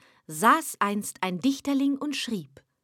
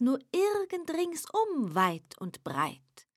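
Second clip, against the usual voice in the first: polite devil. Acted. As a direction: purr the courtesy with hidden menace. Devil speaks smoothly.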